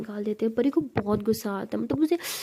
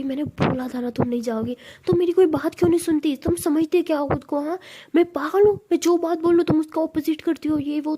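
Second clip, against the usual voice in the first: acted tirade, climbing higher in pitch; angry scolding; 5 semitones higher than usual. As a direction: pile up exasperated accusations. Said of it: "इतना क्यों चिल्ला रहे हैं". (गुस्से में डांटते हुए)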